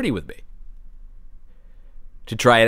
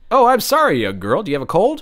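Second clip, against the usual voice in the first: taxi driver; 6 semitones higher than usual. Acted. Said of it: "let's say a taxi driver".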